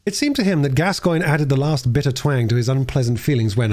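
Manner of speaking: usual speaking voice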